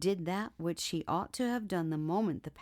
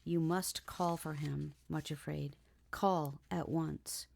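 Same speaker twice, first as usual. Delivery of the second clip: gentle but urgent. Acted. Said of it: "very gently but urgently".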